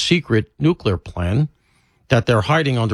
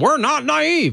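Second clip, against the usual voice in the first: very high, petulant barked delivery. Retelling how a speaker answered a skeptical crowd: petulant bark, imitating John Kerry. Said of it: "He barked at the room".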